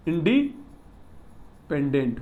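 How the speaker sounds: इंडिपेंडेंट slow and low, long pause after इंडी; split in two. Shown as a demonstration. Teacher repeating a key term to the class, इंडिपेंडेंट drawn out in two pieces. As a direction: break इंडिपेंडेंट into two halves, quietly.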